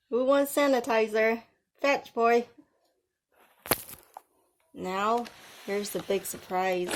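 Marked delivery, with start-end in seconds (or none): 0.1-2.5 louder, higher, teasing a dog with a treat; teasing pet call. Pretend. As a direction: dangle it like a dog toy. Teasing haters like dogs.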